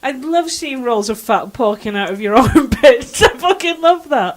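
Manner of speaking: slow, drawn-out mock congratulation; sarcastic praise. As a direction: gush with obvious sarcasm, dragging the words. Mocking sarcastic applause for others.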